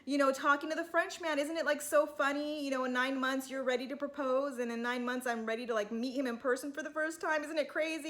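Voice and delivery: mock her gushing a little, up in pitch; Whitney. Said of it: "Whitney says".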